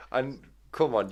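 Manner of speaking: ordinary delivery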